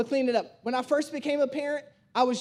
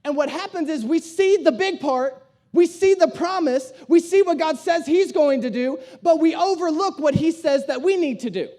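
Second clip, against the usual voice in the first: raised-voice sermon point; emphatic preaching; 5 dB louder than usual. Real, not acted. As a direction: preach it loud, phrase by phrase. Preacher drives the point home.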